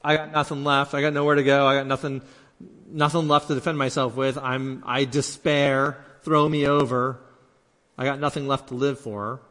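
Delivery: mildly acted despair, repeating in insistent bursts. Jonah with nothing left to live for, despairing. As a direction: give up, piling one plea on another. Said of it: "not despairing and saying".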